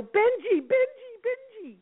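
high frantic calling of a dog's name; panicked owner yelling for her dog; anxious calling. Shown as a demonstration. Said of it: "all the dog is hearing is our anxiety".

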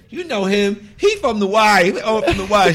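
high-pitched, insistent imitation; eager introduction. Dancer friend reminding a singer who he is, eager. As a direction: pitch it up, eagerly jogging someone's memory. Woman vouching for him to the singer.

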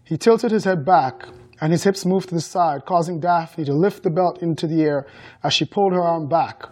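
measured audiobook-style narration; story narration. A narrator's reading. Author reading a book excerpt to guests, story narration. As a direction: read the excerpt aloud evenly.

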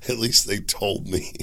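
whispered through laughter; breathless laugh. Real, not acted. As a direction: wheeze the words out mid-laugh. Laughing at own joke.

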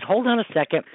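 a hint of an eager kid; little boy voice. Boy runs off to fetch something.

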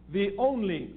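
"only" picked out as the key word; stress on ONLY. Real, not acted. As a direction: lean firmly on "only". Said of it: "underline the word only".

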